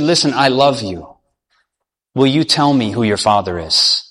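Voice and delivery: low, gentle coaxing; tender reassurance. Acted. King coaxing his frightened sweetheart to confide, tender and low.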